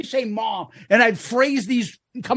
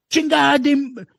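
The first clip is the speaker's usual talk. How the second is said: higher, half-shouted Spanish swearing, hammed up; retold drunken Spanish yelling; 3 semitones higher than usual. Drunk tourist swearing at soldiers, mock yelled Spanish. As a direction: yell the Spanish curses like a cocky drunk. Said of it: "I'm screaming this at these idiots".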